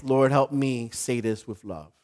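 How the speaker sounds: soft, low plea; earnest prayer. Acted. Believer asking the Lord for help before hard words, earnest. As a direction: quietly ask for help. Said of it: "when the words come out".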